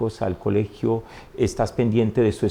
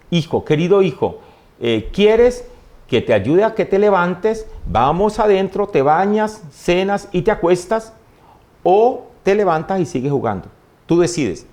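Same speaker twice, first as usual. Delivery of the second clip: higher, measured motherly voice, slowing at times; madre cariñosa; 5 semitones higher than usual. Retold or imitated. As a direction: offer the choice patiently to a fallen child. Mother gently offers fallen child a choice. (voz de madre, aguda y pausada)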